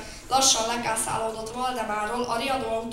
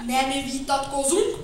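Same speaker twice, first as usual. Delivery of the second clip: official tone; 5 semitones higher, 8 dB louder than usual. Acted. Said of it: "mondta hivatalos hangon".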